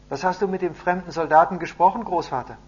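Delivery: put-on eager little boy. A narrator's reading. Running boy asks his grandfather about the soldier, eagerly. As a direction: pipe up like a curious grandson.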